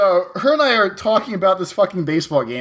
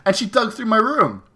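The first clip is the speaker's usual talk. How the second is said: higher mock yell, slowing on the complaint; indignant replay of snapping at mom; retold yelling at mom; 6 semitones higher than usual. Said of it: "I kinda yelled at my mom".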